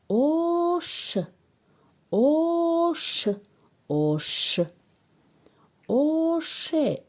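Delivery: slow phonics drill; syllable-by-syllable reading. Shown as a demonstration. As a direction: draw out each sound for children to repeat. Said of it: "Акнун ҷумларо мехонем".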